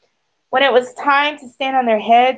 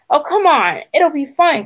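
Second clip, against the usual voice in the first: higher, light coaxing; coaxing quack; 7 semitones higher than usual. A narrator's reading. Duck urges Goose to join in, coaxing. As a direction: coax a reluctant friend, pitched up. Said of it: "quacked Duck".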